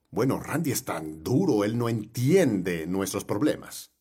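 low, soft imitation of a grumbler; muted complaint. Former church member complaining about the pastor, muted imitation.

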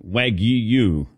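"Wagyu" drawn out as WAG-yoo; echoed pronunciation. Shown as a demonstration. Host repeats Dylan's version back, saying "Wagyu" slowly as WAG-yoo. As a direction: stretch "Wagyu" with a clear y-glide. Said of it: "how do you say it".

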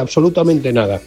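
ordinary delivery

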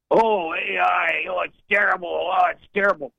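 hammed-up hand-wringing over AI; mocking panicked Democrats. Caller mocks Democrats fretting about AI, whiny mock panic. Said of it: "the Democrats are on it like a duck on a June bug".

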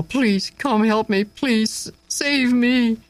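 high, pleading cry; desperate cry for help. A narrator's reading. Marcus calling to the gate for rescue, high desperate plea. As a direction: beg for rescue with a rising plea. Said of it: "Marcus cried toward the gate".

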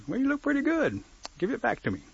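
high-pitched, lightly acted reply; grudging turtle. Turtle asking turkey for his necklace back, grudging.

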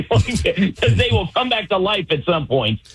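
chuckling through the words; real chuckle carried into the line; amused, laughing. Real, not acted. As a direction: let a laugh lift the voice. Chuckles at own horror-film joke.

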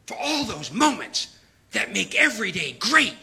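lightly imitated ad voice; commercial announcer. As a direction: read it like a mock cat-food commercial. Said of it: "I heard this commercial the other day".

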